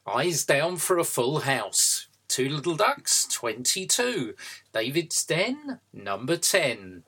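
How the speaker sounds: sing-song calling of bingo numbers; bingo caller. Pretend. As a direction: call the numbers like a bingo hall host. Host calls bingo numbers.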